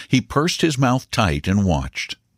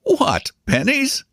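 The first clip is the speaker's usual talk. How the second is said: much higher, slow, amused query; amused mock disbelief; slower than usual. A narrator's reading. Uncle joking about the boy's bet, amused. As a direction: draw it out, high and teasing. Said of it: "laughed the uncle".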